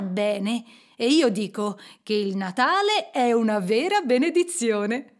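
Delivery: lightly voiced earnest, cheerful nephew; a hint of heartfelt holiday enthusiasm; good-humoured nephew. Nephew defends Christmas with good humour. (nipote di buon umore, appena accennato)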